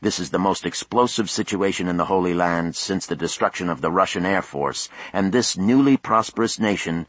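TV news reporter. A narrator's reading. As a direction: announce it like a field correspondent. Voices a TV reporter.

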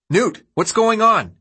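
high, drawn-out yell; loud, slow shout pitched well up. A narrator's reading. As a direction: call out urgently to a friend. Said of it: "he yelled".

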